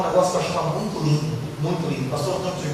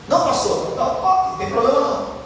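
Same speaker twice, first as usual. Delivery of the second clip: fawning denial; 5 semitones higher than usual. Retold or imitated. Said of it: "Quando vê que o pessoal saiu".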